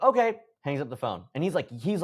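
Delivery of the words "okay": sharp, loud, high curt okay; mock furious okay before hanging up; retold angry snap. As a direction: bite off the word in anger. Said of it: "like, yelling at me".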